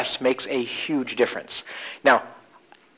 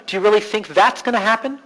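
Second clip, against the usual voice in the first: "that's" punched in a higher-pitched question; stress on THAT'S; 6 semitones higher than usual. Shown as a demonstration. Coach challenging a client's expectation, stress on "that's". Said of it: "You might wanna try".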